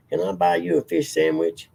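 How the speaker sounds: Ladies Man quote. Retold or imitated. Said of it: "and he'd say that".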